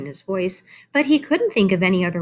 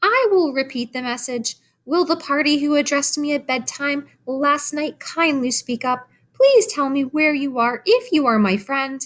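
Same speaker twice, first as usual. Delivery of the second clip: formal announcement, higher; loud, firm; 8 semitones higher than usual. A narrator's reading. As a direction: announce it firmly to the barn. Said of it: "in a loud, firm voice".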